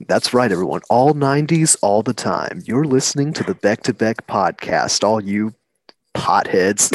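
playful radio DJ patter. Acted. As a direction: announce it like a radio host. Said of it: "sound like a radio D J".

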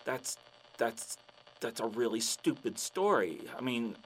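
low, halting disbelief; deflate, groping for polite words; unimpressed fan. Acted. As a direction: let down and baffled. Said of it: "And the guy's like".

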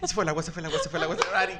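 a light imitation of a worried mother; fretful mother voice. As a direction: panicky mom, laughing. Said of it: "imitar a mi mamá".

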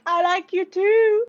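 high, loud, slow kitten voice. Pretend. Kitten reaching paws to the goblin, high sweet voice.

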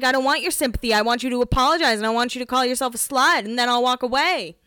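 lightly voiced dramatic heroine; defiant exit line. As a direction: proclaim it like a musical finale. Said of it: "She's like".

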